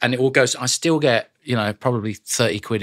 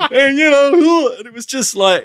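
lingering Southern voice; 8 dB louder than usual. Retold or imitated. Stays in the redneck voice.

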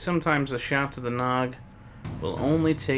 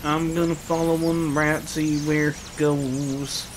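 high, loud calling after a creature; raised playful holler; 3 semitones higher, 5 dB louder than usual. Pretend. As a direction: call out in mock pursuit. Playfully calls after a rat.

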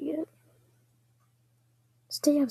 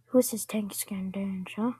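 teasing whisper; 4 semitones lower than usual. Pretend.

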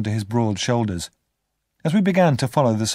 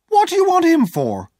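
very high, louder startled woman's question; surprised question; 6 dB louder than usual. Acted. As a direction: ask in surprise, voice shooting up. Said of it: "my sister asked in surprise".

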